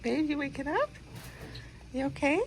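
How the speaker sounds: worried partner. Real, not acted. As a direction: ask gently if he is all right. Wife checking on groggy husband.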